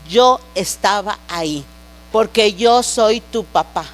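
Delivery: measured, low divine declaration; God the Father. Retold or imitated. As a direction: speak as a father, slowly and low. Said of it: "esa era la voz de papá".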